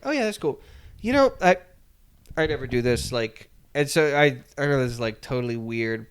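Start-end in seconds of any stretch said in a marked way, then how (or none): 0.0-3.5 Chicken Little flirting. Retold or imitated. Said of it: "Chicken Little's like".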